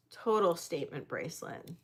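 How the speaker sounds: repeated softly with a rising tone; quiet admiring echo. Real, not acted. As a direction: murmur it back to yourself. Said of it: "So total statement bracelet".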